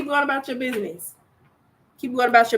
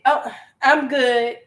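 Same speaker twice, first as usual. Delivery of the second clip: slow, cool dismissal; curt brush-off; 2 semitones higher, slower than usual. Retold or imitated. Woman rejecting a nervous man's approach, curtly. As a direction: shut him down and turn away. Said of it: "only to get".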